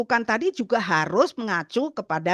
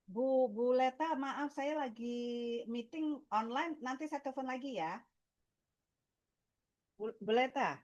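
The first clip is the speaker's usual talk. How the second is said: whispering on the phone; 4 semitones higher, 13 dB quieter than usual. Real, not acted. Aside on phone during meeting.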